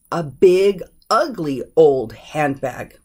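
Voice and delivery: put-on slow, spaced adjectives leading to OLD; stress on OLD. Shown as a demonstration. Teacher showing a reordered phrase, slow with emphasis on OLD. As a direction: set out each word before a stretched OLD. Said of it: "the first emphasis is that it's old".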